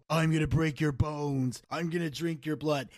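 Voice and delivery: a hint of Moxley's menace, half-hearted; imitating Moxley. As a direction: drag it out like a lightly voiced Moxley. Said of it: "he had the walk down perfectly of Moxley".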